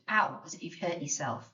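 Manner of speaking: "ow" said like a little cry of pain; ow sound. Shown as a demonstration. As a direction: yelp "ow" as if hurt. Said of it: "makes a kind of ow sound".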